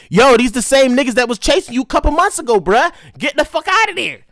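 loud, high alarmed yell; retold frantic yelling; panicked shout. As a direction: shout the warning to run. Yelling at himself to flee.

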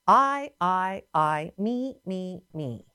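lightly mocking self-obsession; Satan's self-centeredness. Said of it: "Do you notice how he said".

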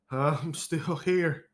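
quiet, slow, stretched out like a murmur; soft drawn-out aside. Acted. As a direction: let it fade out, slow and soft. Repeats greeting, dropped quiet.

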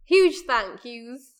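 slow, drawn-out words; staccato. Acted. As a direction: stretch each word out slowly. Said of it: "just doing one word at a time".

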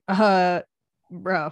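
lightly voiced frat boy; a hint of a dopey frat bro. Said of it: "That was my best impersonation of a frat boy".

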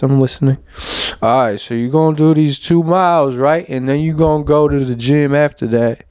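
streetwise bro pep talk, lightly voiced; a hint of a hype friend coaching leg day; internal monologue voice. Shown as a demonstration. Demoing his inner voice pushing him to run and lift, lightly voiced. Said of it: "So here it goes".

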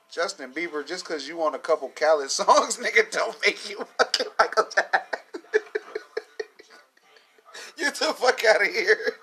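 high, loud, cracking up mid-rant; laughing mockery. Real, not acted. Mocking a singer, cracking up.

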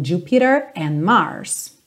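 "Jupiter" with the T flapped; a quick tap on the T of "Jupiter". Shown as a demonstration. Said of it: "fazer o rarará no T".

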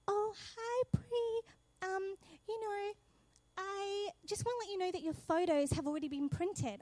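a hint of a chirpy assistant on the phone; shop assistant. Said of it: "and she's like".

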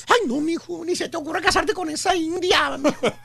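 a touch of disdain, looking down on her; lightly voiced snobbish mother; contemptuous. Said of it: "Despectivamente le dijo". (madre despectiva, con desdén leve)

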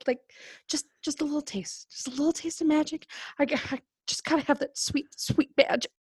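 soft, fast, desperate murmur; craving whisper. Acted. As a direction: crave it under your breath. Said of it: "she's jonesing so bad".

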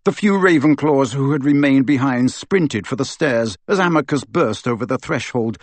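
plain reading voice

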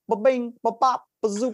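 high, loud scatting ba-bing; Bill Cosby impression. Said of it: "like, Bill Cosby".

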